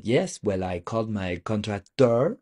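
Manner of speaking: French speaker's English, contractor stressed on the last syllable; French-accented English, rising on contracTOR. Acted. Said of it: "So a French person calls".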